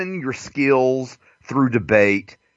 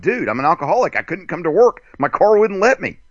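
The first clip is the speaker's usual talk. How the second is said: mock excuse; 6 semitones higher, faster than usual. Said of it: "And I'm like".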